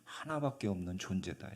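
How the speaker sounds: 하나밖에 hit hard, the phrase then dropping away; weight 하나밖에 as priceless; preacher stresses 하나밖에 to his listener; stress on only one. Shown as a demonstration. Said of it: "너는".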